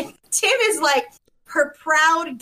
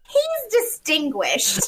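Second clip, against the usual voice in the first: laughing, slow quote; 4 semitones higher, slower than usual. Retold or imitated. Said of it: "Heidi goes".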